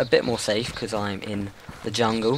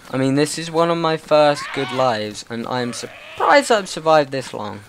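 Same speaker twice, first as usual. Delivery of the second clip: loud, raised excited voice; excited shouting; 3 semitones higher, 3 dB louder than usual. Real, not acted. Gamer amazed at surviving so long, loud and excited. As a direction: call it out, thrilled to still be alive.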